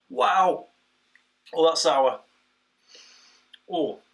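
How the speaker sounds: loud, high wow at the sourness; puckered shock at the tart sip; sour taste reaction. Real, not acted. First sip of sour beer.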